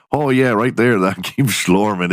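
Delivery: lightly mocked Dakota accent; Midwest accent. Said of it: "such a Midwest accent".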